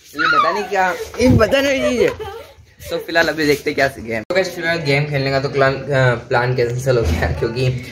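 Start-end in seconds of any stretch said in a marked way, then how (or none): 0.1-2.1 very high squeaky voice breaking into laughter; squeaky joke voice. Acted. Mocking the unknown game in a high squeaky voice.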